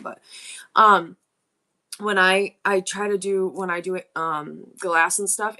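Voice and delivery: talking while chewing gum. Real, not acted. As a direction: chew gum as you speak. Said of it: "I'm gonna put gum in my mouth".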